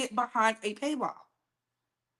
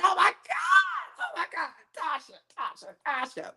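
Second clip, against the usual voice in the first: shocked exclaiming; 2 semitones higher than usual. Retold or imitated. Retold shock at gossip.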